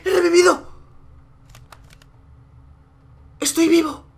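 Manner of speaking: astonished high-pitched outburst; amazed relief. Real, not acted. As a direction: cry out in disbelief at surviving. Comes back to life.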